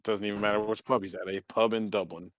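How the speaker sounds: lightly done Irish brogue at the pub; a hint of a Dublin drinker's lilt; Irish accent. Player introducing his Irish character, mild Irish accent. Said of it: "I'll fucking do the the accent".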